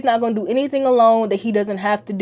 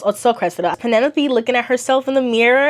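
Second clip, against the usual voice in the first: normal talking voice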